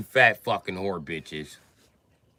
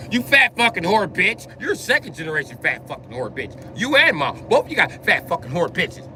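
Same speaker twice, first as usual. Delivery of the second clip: high, spat-out insults; angry insults; 5 semitones higher than usual. Retold or imitated. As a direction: lash out at the sister. Insulting sister on phone.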